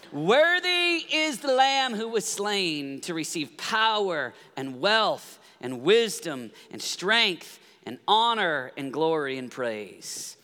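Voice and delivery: drawn out, fading, reverent scripture read; slow proclamation. Acted. Preacher proclaims the Lamb's worth to the congregation, slow and reverent. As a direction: let each word ring, then fade out. Reading the angels' song aloud.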